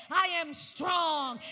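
slow, loud claim of strength; the weak declaring they are strong; bold declaration. Acted. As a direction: declare it with full force. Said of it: "let the weak say".

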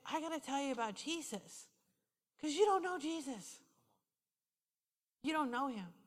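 soft retold pleading with pauses; gentle earnest counsel. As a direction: tell it quietly and tenderly. Earnest retold counsel to crying woman.

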